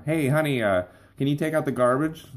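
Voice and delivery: lightly voiced wife asking about the garbage. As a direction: sweetly ask for a favour. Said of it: "your wife or mom or whoever might ask you".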